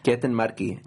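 light put-on Hispanic accent on a name. Shown as a demonstration. Repeating a viewer's full name on request, Hispanic accent. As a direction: run the whole name through Hispanic vowels. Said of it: "say their name in a Hispanic accent".

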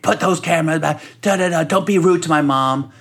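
high, nagging imitation; high-pitched telling-off, mimicked; mock scolding girlfriend.

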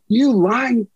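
high, drawn-out insult with a laugh in it; re-enacted furious yell, slow and high; retold screaming. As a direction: slowly yell each word, pitched high. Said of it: "I'm screaming".

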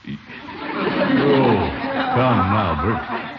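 chuckling through the words; amused laugh. Acted. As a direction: laugh it off, knowingly. Laughs off Bertie's excuse.

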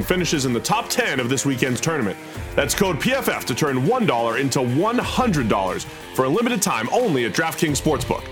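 upbeat sponsor read over music; hard sell ad. Acted. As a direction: read it like a quick radio spot.

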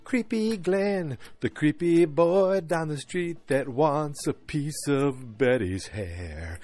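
drawn-out, mostly high and loud mockery; mock disgust. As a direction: stretch the words in hammed-up disdain. Mock outrage at disliked characters.

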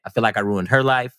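said casually, in passing; offhand admission at an everyday level. Real, not acted. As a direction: drop it in matter-of-factly. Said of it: "did you say that casually".

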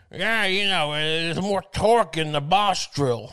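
mock a smug hardware store expert, drawn out; Long Island tool guy. Mocking a Long Island guy at the deli, smug slow brag. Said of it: "these guys are just like".

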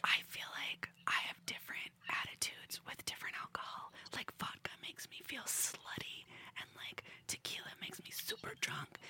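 whisper. Shown as a demonstration. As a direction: whisper it like sharing a secret. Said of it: "do a whine and a whisper".

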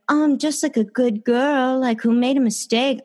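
high, sugary mock good girl; mocking innocence. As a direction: sneer at the fake innocent act. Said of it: "I don't buy this act".

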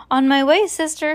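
high, loud call; shouting back. A narrator's reading. Baby answering her sister from the back door, shouting. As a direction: call back to someone in another room. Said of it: "shouted Baby".

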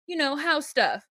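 high, sulky retold reply; mock pouting. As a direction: imitate a pouting bride dodging the question. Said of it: "and pouting".

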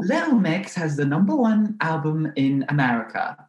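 lightly put-on classical British accent; a hint of classical British in the accent; the singer's classical British accent. Host demonstrating a singer, mild classical British accent. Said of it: "like, a very classical British accent".

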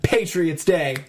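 slow, spaced-out top-five countdown; countdown announcer. Pretend. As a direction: announce each entry with a dramatic pause. Reads out a ranked list.

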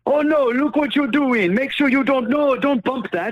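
high, slow mock fret; fussing like a worried copilot; nagging Chewy. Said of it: "he's all like".

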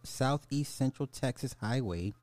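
emphatic article-reading voice; news read. A narrator's reading. Streamer reading a cow mystery article to viewers, newsreader style. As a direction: announce the headline with lifted pitch, then read on.

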